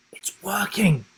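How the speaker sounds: breathy unvoiced whisper. A narrator's reading. Will whispering to Rhea as the plan works, hushed. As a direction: whisper it so the voids don't hear. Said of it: "whispered Will".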